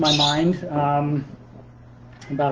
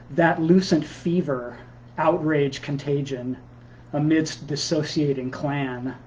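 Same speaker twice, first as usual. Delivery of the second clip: measured poem recital with deliberate pauses; poetry reading; slower than usual. Acted. Poet reading new pandemic work to Sunday listeners, measured recital. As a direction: read it as verse, phrase by phrase, pausing between lines. Reads own poem aloud.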